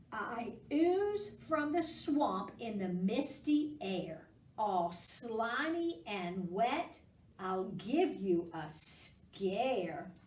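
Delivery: slow creepy storybook read; spooky riddle reading. Acted. Teacher reading a spooky riddle to kids. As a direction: read it to give a gentle scare. Reads riddle rhyme to children.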